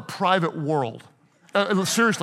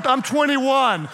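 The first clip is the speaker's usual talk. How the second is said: joking shout; 5 semitones higher than usual. Real, not acted. Preacher joking to the congregation, laughing shout.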